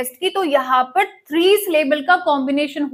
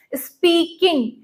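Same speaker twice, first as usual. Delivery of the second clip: स्पीकिंग slowly split, with more weight on स्पीक; stress on first syllable; 2 semitones higher, slower than usual. Shown as a demonstration. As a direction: say स्पीकिंग with stressed स्पीक, lighter final "-ing". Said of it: "स्पीक पर ज्यादा word".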